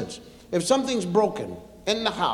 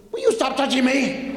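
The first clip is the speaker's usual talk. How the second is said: put-on whining child; 7 semitones higher than usual. Children fighting.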